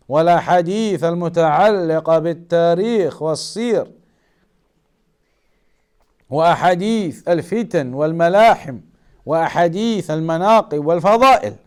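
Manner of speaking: quick, even recitation of a quoted definition; rapid Arabic text reading. Acted. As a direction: rattle off the Arabic list briskly. Reads Arabic definition aloud.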